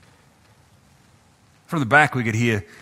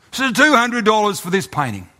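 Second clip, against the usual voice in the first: high, pleading price call; auctioneer calling price; 8 semitones higher than usual. Acted. Auctioneer drops the price again.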